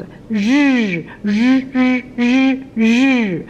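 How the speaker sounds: r, r blended into a short vowel sound. Shown as a demonstration. Teacher demonstrates r joined to a short vowel. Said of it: "connect with a short vowel sound".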